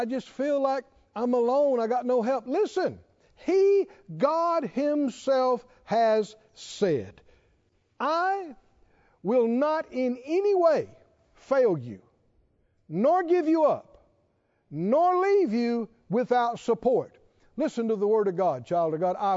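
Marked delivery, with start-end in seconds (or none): 2.5-7.2 preaching at full force. Real, not acted. Preacher proclaiming God's promise to the church, ringing out high. 8.0-17.2 preached with force. Real, not acted. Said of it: "same verse preached harder".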